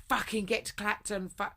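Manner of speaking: imitating a screaming boyfriend; retold scream. Boyfriend screaming at her down the phone, mock yell. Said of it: "heard Richard screaming down the phone".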